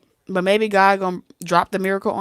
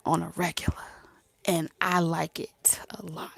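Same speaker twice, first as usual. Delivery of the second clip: hushed plea; 4 semitones lower, 9 dB quieter than usual. Retold or imitated. Tender plea to woman.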